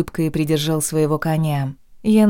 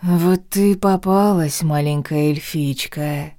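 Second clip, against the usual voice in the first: slow rasping graveyard voice; sepulchral rasp; slower than usual. Acted. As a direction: rasp it out like a ghoul. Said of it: "прохрипел он загробным голосом".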